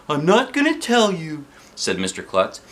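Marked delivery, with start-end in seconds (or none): 0.1-1.4 teasing. Acted. Principal teasing kids.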